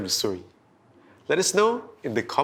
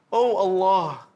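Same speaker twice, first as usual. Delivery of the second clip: louder, pleading cry to God; desperate plea; 4 dB louder, slower than usual. Acted. Prophet Lut crying out to Allah for help, louder desperate plea. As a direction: beg for help with a touch of desperation. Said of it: "he pleaded desperately".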